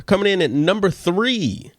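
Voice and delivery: radio DJ voice. Real, not acted. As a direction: call it out like a radio host. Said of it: "I don't know why I sound like a D J".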